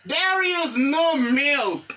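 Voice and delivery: very slow, carefully spaced English model sentence; lecture lente. Shown as a demonstration. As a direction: say each word slowly so the class can repeat. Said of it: "Milk qui signifie lait". (phrase modèle dite très lentement)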